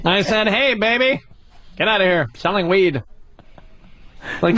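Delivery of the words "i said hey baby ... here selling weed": lightly voiced stand-up impression; mock stand-up scolding a baby; Dave Chappelle. Comic imitating a rival's bit, mild mock scolding. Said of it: "this is Dave Chappelle".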